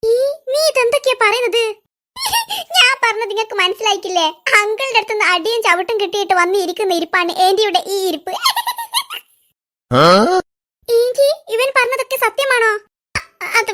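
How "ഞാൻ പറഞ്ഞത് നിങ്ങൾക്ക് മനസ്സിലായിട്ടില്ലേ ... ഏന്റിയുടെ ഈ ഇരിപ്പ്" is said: chuckling through the words; laughing while telling. Acted. Boy laughs while telling sister about aunt's beating, chuckling. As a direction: giggle as you explain what happened to aunt. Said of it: "ഇങ്ങനെ ചിരിക്കുകയാണോ വേണ്ടത്?".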